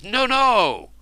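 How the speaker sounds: loud high cry of dismay; crowd shouting. Acted. Court crowd protesting the refusal, loud and high. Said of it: "hundreds of voices".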